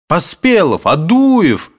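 high, bright greeting cry; joyful exclamation. A narrator's reading. Two friends reunite, calling each name joyfully. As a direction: shout names in glad surprise. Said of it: "воскликнули они враз".

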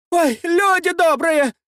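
high, slow, hammed-up wail; theatrical lament. A narrator's reading. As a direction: ham up the outrage, clutching her chest. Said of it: "театрально схватилась за грудь". (театральный плач)

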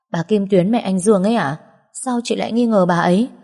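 surprised questioning, pitch lifted toward the end; ngạc nhiên. Acted. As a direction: check back, mildly taken aback. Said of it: "tỏ vẻ ngạc nhiên hỏi lại". (giọng hỏi lại ngạc nhiên, hơi cao)

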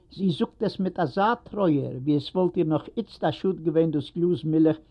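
usual speaking voice

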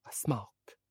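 faint, hoarse reply; small hoarse voice. A narrator's reading. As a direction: answer softly in a husky, subdued voice. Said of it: "قالت في صوت مبحوح".

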